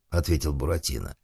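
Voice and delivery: ordinary delivery, nothing marked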